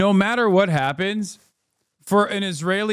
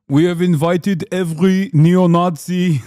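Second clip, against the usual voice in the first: slow, louder, laughing sarcasm; laughing mock quote; 6 dB louder, slower than usual. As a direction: laugh through a mocking quote. Streamer mocks conference announcement.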